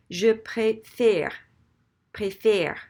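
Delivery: slow, loud "préfère" with a tight closed é at the end; accent left unflipped. Shown as a demonstration. Teacher showing the unflipped accent, "préfère" with closed é. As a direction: stretch "préfère" out with a closed "fay-r" ending. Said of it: "what happens if we leave it".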